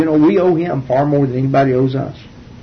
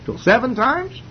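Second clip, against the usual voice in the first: Peter voiced higher, keen to impress the Lord; eager Peter; 3 semitones higher than usual. Peter asks the Lord, eager to impress, higher voice. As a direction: Peter fishing for praise, pitched up. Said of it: "and he said".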